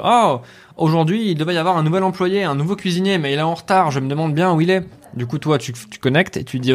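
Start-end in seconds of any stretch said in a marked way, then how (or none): 0.1-4.9 PNJ bavard, voix plus aiguë. Retold or imitated. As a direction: imiter un cuisinier qui papote. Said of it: "qui va te dire par exemple". (voix de PNJ plus aiguë)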